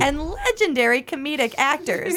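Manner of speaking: light touch of a polished tour guide. Acted. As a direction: announce it like a theme park tram guide. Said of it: "I can hear you on that tram".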